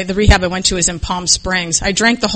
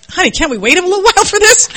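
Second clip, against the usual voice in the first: laughing plea; 11 semitones higher than usual. Retold or imitated. Begging to skip the photo.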